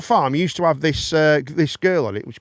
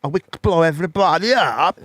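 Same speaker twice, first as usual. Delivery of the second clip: mock Russian accent.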